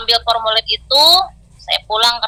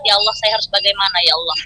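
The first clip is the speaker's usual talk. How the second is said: tearful prayer; 3 semitones lower, 4 dB quieter, faster than usual. Retold or imitated. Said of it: "sambil meneteskan air mata".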